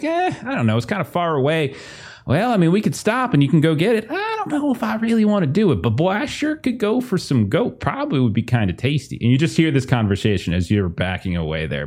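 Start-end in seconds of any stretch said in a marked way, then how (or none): 0.0-9.2 hick farmer voice. Acted. Farmers banter.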